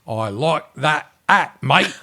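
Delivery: slow, high mock Aussie; drawn-out, badly faked Australian accent. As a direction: imitate someone doing Australian badly. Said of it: "in an Australian accent".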